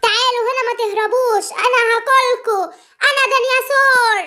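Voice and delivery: loud mock monster threat, last words slowed; pretend dinosaur roar. Simba chases the animals pretending to be a dinosaur, loud. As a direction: growl it out like a playful dinosaur.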